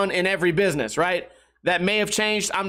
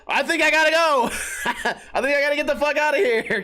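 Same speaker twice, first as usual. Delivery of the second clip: laughing; 7 semitones higher than usual. Retold or imitated. Trying to escape clerk.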